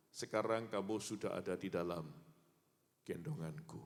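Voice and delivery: God tells the man he is carried; tender God voice. Acted. God's tender answer.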